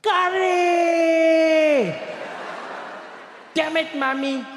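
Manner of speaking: drawn-out high, loud scream of dismay; screaming friend. Acted. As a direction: belt the first word long and high, then curse. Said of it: "scream at the top of his lungs".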